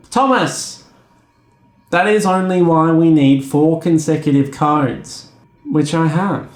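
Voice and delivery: patient agent explaining no; mock agent voice. Agent refusing again.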